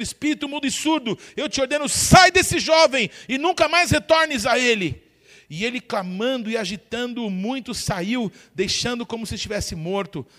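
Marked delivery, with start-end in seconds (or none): 0.0-5.0 commanding rebuke. Acted. Jesus ordering the deaf spirit out of the boy, loud and commanding. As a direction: order the spirit out with full authority.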